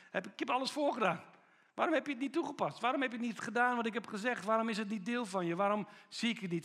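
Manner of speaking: exasperated rebuke. Retold or imitated. Jesus exasperated with disciples. (Jezus, hoger en geërgerd, verwijt zijn discipelen)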